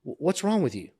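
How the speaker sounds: mock scolding; retold berating. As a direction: imitate a boss belittling someone. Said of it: "like, berating me, belittling me".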